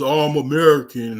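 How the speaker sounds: lightly mock a cocky American abroad; smug American.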